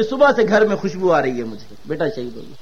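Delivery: quiet, falling, low and soft grief; mother's grief. Retold or imitated. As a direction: let the news sink to a hush. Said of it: "کہتی ہے". (بیٹے کی شہادت پر ماں کی دھیمی غمگین آواز)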